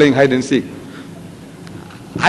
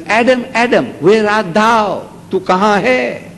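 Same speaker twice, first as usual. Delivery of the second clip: God calling out; 5 semitones higher, slower than usual. Acted. God calling for hiding Adam.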